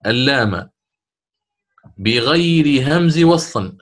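reciting verse. Shown as a demonstration. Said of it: "وكان يريد أن يقول".

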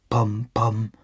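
imitated thuds on a wall; booming knocks. A narrator's reading. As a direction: voice two dull, separate knocks. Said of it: "ein dröhnendes Pochen".

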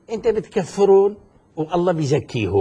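colloquial Syrian Levantine speech; Levantine dialect. Real, not acted. Debater restating his challenge to his opponent, in Levantine dialect. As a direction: put it plainly in Shami dialect. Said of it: "يعني بالشامي".

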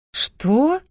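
knocked back by the news; stunned gasp. Acted. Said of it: "ошарашенно выдохнула я".

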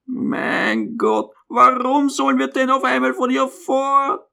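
put-on high, dismayed old mother; honestly appalled. A narrator's reading. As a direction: cry out in high-pitched dismay. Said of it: "meinte ehrlich entsetzt".

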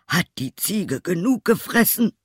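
high-pitched, demanding question; old tailor. A narrator's reading. Old tailor questions his son. (fordernder alter Schneider)

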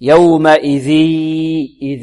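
"يومئذ" ending in a stretched oral ee, no nasality; merging without ghunna. Shown as a demonstration. Teacher showing the faulty recitation, stretched without ghunna. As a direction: draw out the end of "يومئذ" as a plain long vowel. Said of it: "خطأ".

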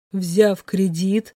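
slow, level, unmoved question; emotionless. A narrator's reading. Andrey to Alina, coolly questioning her loan plan, emotionless. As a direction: drop it coolly, no feeling at all. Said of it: "безэмоционально уточнил он".

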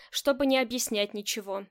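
ordinary delivery

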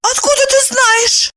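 high astonished question; stunned. A narrator's reading. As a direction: gasp it out stunned. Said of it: "ошеломлённо".

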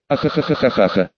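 long mocking cackle of a fox demon; a mocking demon's cackle; villainous laugh. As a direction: burst into a gloating laugh. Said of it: "громкий смех Курамы".

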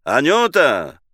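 Myshlaevsky calling Anyuta loudly and briskly. Acted. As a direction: call the maid loudly and briskly. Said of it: "бодро, выздоровев от бронхита, вскричал".

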